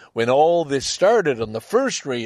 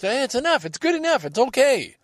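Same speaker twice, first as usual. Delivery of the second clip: pleading; 12 semitones higher than usual. Retold or imitated. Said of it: "I just".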